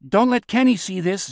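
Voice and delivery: high-pitched urgent call. A narrator's reading. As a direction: call to people in another room. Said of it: "Zeke called out".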